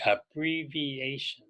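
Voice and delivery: slow, syllable by syllable; teacher modelling abbreviation slowly for students to echo; slow repeat-after-me. Shown as a demonstration. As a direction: spell out abbreviation slowly so learners can follow. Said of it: "Say it with me".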